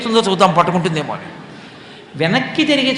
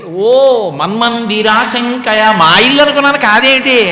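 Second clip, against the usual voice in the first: drawn-out oh, rising louder; feigned surprise; 3 semitones higher, 5 dB louder, slower than usual. Acted. Krishna, caught stealing, claims he mistook the house, feigned surprise. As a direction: play innocent with a long, raised excuse.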